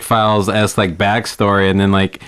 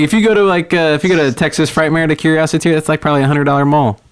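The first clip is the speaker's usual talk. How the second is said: higher, fast, eager pitch; whisper yelling; 5 semitones higher, faster than usual. Retold or imitated. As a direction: rush it out like a hot tip. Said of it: "whisper yelling at this lady from work".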